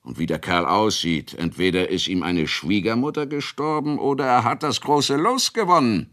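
am Ende hoch hinaufgezogen, verwundert; neckender Bauer. Acted. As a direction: Kunicke staunt und foppt den Wirt. Kunicke neckt den aufgeregten Ratschek. (Kunicke neckt Ratschek, leicht gespielt)

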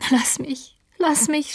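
high, pleading sob, lightly acted; sobbing. A narrator's reading. Dying Catherine begs Heathcliff to leave her be, sobbing. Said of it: "schluchzte Catherine".

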